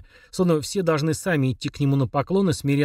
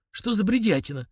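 exclaiming; 6 semitones higher than usual. A narrator's reading. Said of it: "воскликнул он".

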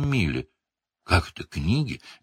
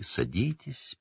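a quieter, fading second invitation; softer welcoming seer; 11 dB quieter, slower than usual. A narrator's reading. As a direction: trail off the invitation gently. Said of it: "как дорогих гостей".

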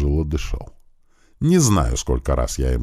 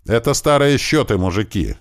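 calling out to guards; 8 semitones higher than usual. A narrator's reading. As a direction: call out over the crowd. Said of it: "крикнул я им". (громко, обращаясь к охранникам)

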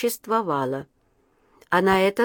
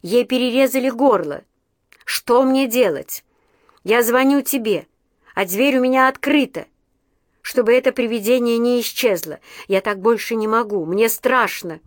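crying on the phone; 3 semitones higher than usual. Acted. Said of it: "Юля уже рыдала в трубку".

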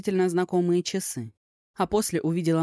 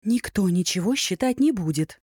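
curt; 3 semitones higher than usual. Acted. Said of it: "отрезала подруга".

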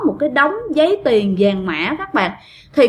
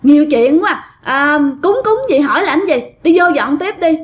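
higher, slightly louder mock telling-off; retold scolding; 4 semitones higher, 3 dB louder than usual. Troupe woman shooing the nosy worker back to cleaning, retold scolding. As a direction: imitate an irritated dismissal. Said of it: "chửi nữa các bạn".

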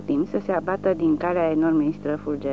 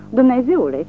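higher, louder frightened gasp of a word; stifled cry; 6 semitones higher, 6 dB louder than usual. A narrator's reading. Old woman sees the SS uniforms, a stifled frightened cry. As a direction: cry out in sudden fear, choked. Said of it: "țipă ea cu un strigăt înnăbușit".

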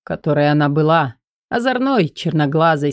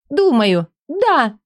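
flaring up; 8 semitones higher, slower than usual. Acted. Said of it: "Вспыхивает она".

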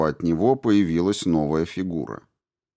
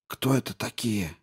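whispering; 3 semitones higher, 7 dB quieter than usual. A narrator's reading. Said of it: "шёпотом спросил Павел".

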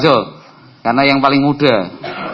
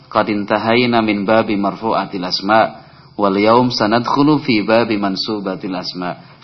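a bit faster; 2 semitones lower than usual. Shown as a demonstration. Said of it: "Nah, rada cepet".

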